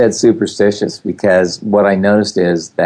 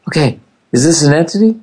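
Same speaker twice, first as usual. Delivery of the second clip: higher questioning caller voice; voiced caller; 7 semitones higher than usual. Callers phoning to ask about entities, imitated questioning voice. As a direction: imitate a puzzled caller asking. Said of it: "they call me and they go".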